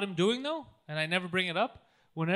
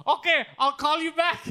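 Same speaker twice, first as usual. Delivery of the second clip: flustered caller; 9 semitones higher, 8 dB louder than usual. Retold or imitated. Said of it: "he didn't know what to do".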